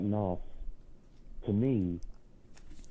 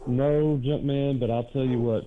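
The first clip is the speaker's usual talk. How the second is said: emphatic; 4 semitones higher, 4 dB louder than usual. Real, not acted. Caller bursts out.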